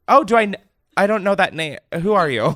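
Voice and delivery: baffled at an unknown caller; caught off guard. Retold or imitated. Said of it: "I got so caught off guard".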